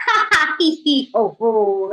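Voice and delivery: spelled-out hearty laugh dropping low; lion laughing. Acted. Lion laughing at the tiny mouse, mock hearty laugh. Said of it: "He laughed so loud".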